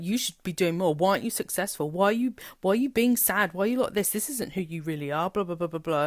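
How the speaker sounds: half-hearted mock scolding from mother; berating mother. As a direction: mildly imitate her mother nagging. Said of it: "she would berate me".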